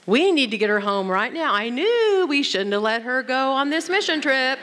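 hammed-up motherly panic; panicked mother. Mother reacts to sick daughter's email, mock panic. Acting out a worried mother's thoughts.

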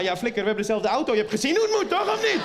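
imitating an irked driver, pitch climbing; mock exasperated demand; indignant challenge. Other driver challenges him, acted.

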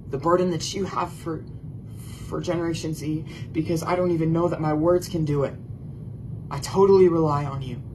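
earnest spoken prayer to the Holy Spirit. Real, not acted. Pastor praying over listeners, earnest prayer. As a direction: pray it, pleading and sincere. Opening prayer before sermon.

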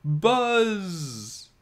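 very high buzzing fly yell, drawn out. A narrator's reading. Fly yelling for the boy held by the monster, very high. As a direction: shriek Buzz like a panicked fly. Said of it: "Fly Guy yelled".

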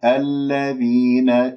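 الذين slow, no punch on the dhal; unstressed dhal. Shown as a demonstration. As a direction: draw out الذين evenly without stressing ذ. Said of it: "هكذا بدون أن تنبر الذال".

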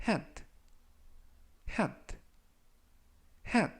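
hat said softly and clearly; slow model reading. Shown as a demonstration. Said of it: "제가 천천히 세 번씩 읽어드리고요".

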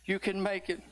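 cheering crowd of witnesses, building. Acted. Witnesses cheer the church members on, building preaching cry. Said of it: "a cloud of witnesses rooting you on".

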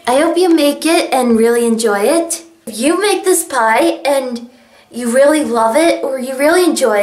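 hoarse, strained sore-throat voice. Real, not acted. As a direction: talk through a sore throat. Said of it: "Sorry, my throat is so sore".

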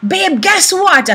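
husband teasing his big surprise, bursting with excitement; totally excited. Retold or imitated. Husband on the phone about the car, excited. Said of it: "totally excited".

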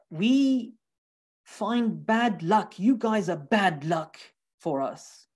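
lightly acted exasperation, sinking at the end; mock fed up. Proud people rejecting the messengers, mildly fed up. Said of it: "They're, like, fed up".

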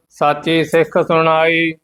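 level, monotone Gurbani chant; measured devotional reading; scripture recitation. Acted. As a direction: recite on one steady note with a held ending.

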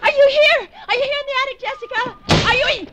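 loud call into the attic. Acted. Calling up into the attic.

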